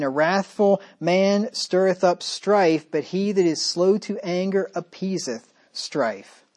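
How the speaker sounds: slow, measured reading of a Bible verse; preacher reading Proverbs to the congregation, slow and solemn; scripture reading. Acted. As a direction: read the proverb out slowly and solemnly.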